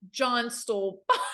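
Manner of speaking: a laugh breaking up the board's message; can't hold back the giggle on pot; laughing through it. Real, not acted. Reading the Ouija message to friends, cracking up mid-line.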